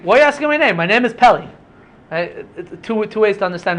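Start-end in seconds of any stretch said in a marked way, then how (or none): 0.0-1.5 high, brushing off the question; why would you even ask, then the name; dismissive reply. Shown as a demonstration. Angel brushing off the father's question, rising and dismissive. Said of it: "Or is he saying".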